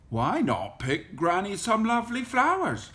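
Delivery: coaxing wolf. A narrator's reading.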